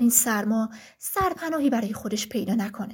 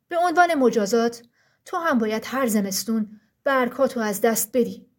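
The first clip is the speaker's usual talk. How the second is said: stern forest ruler. Acted. Frost, ruler of the forest, addresses the trees sternly. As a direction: speak as the frost king laying down the law.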